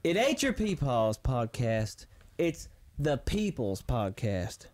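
low, slow wrestling promo voice. Acted. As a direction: cut a heel promo on the mic. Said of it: "I'm cutting a promo".

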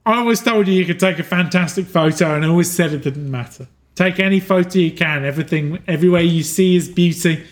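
lightly voiced mentor, encouraging and tender; a hint of a loving guide saying goodbye; gentle farewell. Departing figure urges Arlo to share his photos, lightly voiced and tender.

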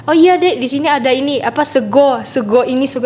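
a hint of a Javanese food-stall lady; stall owner explaining. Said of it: "ibunya ngejelasin gitu".

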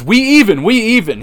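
high, loud mock impression of a calm wrestler; mock Bray Wyatt. Imitating Bray Wyatt offering a truce, high and loud. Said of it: "Will Smith's Bray Wyatt and says".

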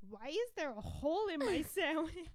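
put-on high, loud puzzled kid voice; a confused little boy asking; mock confusion. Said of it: "he has the most, like, funny, confused, like, voice".

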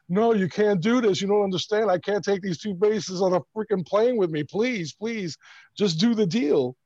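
begging the clerk with a mild mock sob; pleading, near tears. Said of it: "like, literally crying".

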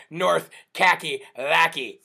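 playful nickname. Shown as a demonstration. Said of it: "I like to say".

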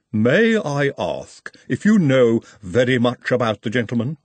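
measured, formal Igor voice with a foreign lilt. Acted. Igor questions Trev.

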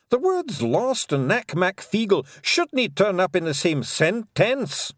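high, indignant Scottish wee-man voice; touchy Scots Feegle; offended Scottish pixie. Acted. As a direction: bristle with hurt Scottish pride. Feegles protest.

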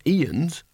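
"eons" said as EE-uns, like Ians; weak second vowel in "eons", an uh sound; mispronounced eons. A narrator's reading. Conscience lectures Rincewind on magic, mispronouncing "eons" as EE-uns. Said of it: "Do I mean eons".

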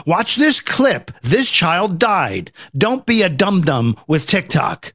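slow announcer voice for a warning ad; lightly voiced PSA announcer; mock ad read. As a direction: read it like a public service ad, slowly. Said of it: "then make some ads".

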